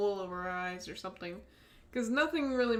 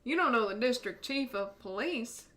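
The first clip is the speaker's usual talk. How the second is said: put-on a faint, failed Australian accent; attempted Australian accent. Streamer tries an Australian accent for the chief, faintly. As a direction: try for Australian and miss. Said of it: "that didn't sound very good".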